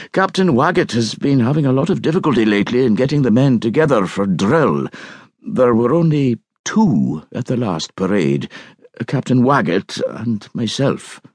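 shy bank agent. Acted. Bank agent voiced by narrator.

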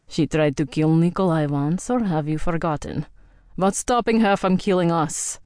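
Viking warrior, cold accusation, "never" hammered; a suspicious old Viking accusing her; hostile Viking. Acted. Andor voiced in story.

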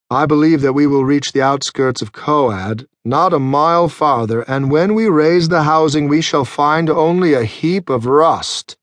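lofty, gloomy scholar voice; condescending scholar. Acted. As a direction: forecast ruin with cool superiority. Anacho's pessimistic forecast.

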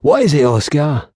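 a firm, pressing question; demanding. Acted. Old woodcutter demanding news from Oscar, firm. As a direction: demand an answer. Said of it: "Hollis demanded".

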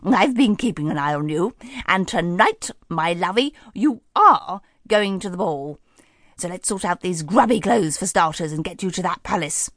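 lightly voiced kindly old lady; cosy, fussing and encouraging; cheerful fairy godmother. Fairy godmother tells Cinderella she goes to the ball, kindly. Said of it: "she beamed".

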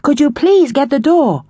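loud annoyed call. A narrator's reading. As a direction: call out, clearly irritated. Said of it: "sounding annoyed".

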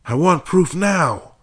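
slow, loud, high insistence; demanding. A narrator's reading. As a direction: demand it, each word firm. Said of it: "Mark demanded".

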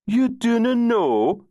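high, mocking Scots "You dunna know?"; mock Scottish brogue. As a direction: echo his brogue with a sneering rise. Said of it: "Adam mimicked his brogue".

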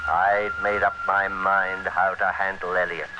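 measured first-person noir narration; hard-boiled radio narrator looking back; story narration. A narrator's reading. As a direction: tell it to the listener like a confession.

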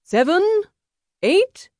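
very high, loud count; calling out. Acted. Second counting paces at a duel, calling out. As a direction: call each number out high.

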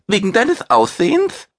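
indignant mousebeaver. Acted. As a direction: Guki bristles on his friend's behalf. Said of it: "fragte Guki empört".

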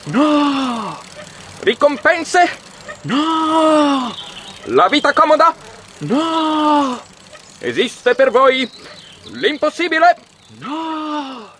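high, loud fascist rally shouting; brassy old newsreel. Acted. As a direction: bellow it to a crowd, newsreel style. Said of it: "tocca guardarsi anche il cinegiornale".

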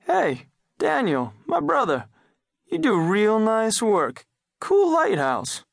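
squeaky tiny-creature voice, stretched slow; high slow tick voice. A narrator's reading. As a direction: talk like a tiny cartoon bug.

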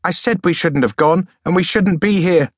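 a touch of plaintive complaint; the reedy boy pleads to leave, plaintive. Acted. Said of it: "added plaintively".

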